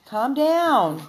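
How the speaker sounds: loud scolding call. Real, not acted. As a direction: catch the dog in the act. Scolding dog on camera.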